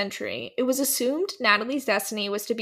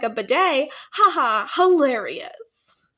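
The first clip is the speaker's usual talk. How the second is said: louder mock laugh at a bidet; mock amused girl; 3 semitones higher, 5 dB louder, slower than usual. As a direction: play a girl cracking up at a bidet. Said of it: "She was like".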